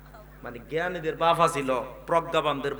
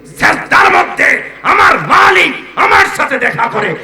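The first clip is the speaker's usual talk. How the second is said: very high, very loud proclamation; thundering sermon climax; climactic preaching shout; 11 semitones higher, 14 dB louder than usual. Real, not acted. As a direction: shout it at full force to rouse the crowd. Preacher's climax, rousing the crowd.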